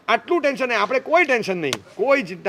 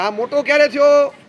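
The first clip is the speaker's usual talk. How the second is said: louder, slower mock disbelief; incredulous; 4 semitones higher, 5 dB louder than usual. Real, not acted. Speaker mocking a sixteen-year-old, incredulous and slower. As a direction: when did he grow up, louder and drawn out.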